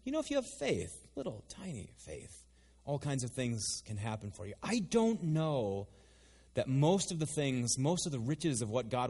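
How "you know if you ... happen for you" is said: soft-spoken Jesus. Acted. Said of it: "unless we'd had Jesus saying".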